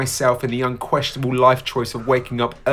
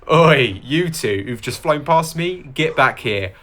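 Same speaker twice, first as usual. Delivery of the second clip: calling out; 3 semitones higher than usual. Real, not acted. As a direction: shout after them, playful. Calling after passing runners.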